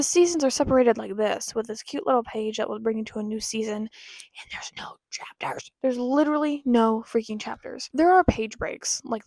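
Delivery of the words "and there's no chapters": slow, breathy whisper of dismay. Real, not acted. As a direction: hiss it out slowly in disbelief. Exasperated whispered complaint.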